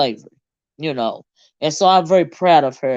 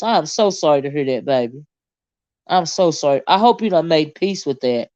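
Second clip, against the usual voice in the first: sincere sympathy. Real, not acted. Sympathy to commenter.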